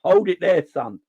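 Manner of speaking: lightly acted defender halting an opponent; Conor Bradley. Defender stops a young attacker in his tracks, lightly acted challenge. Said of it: "Conor Bradley was like".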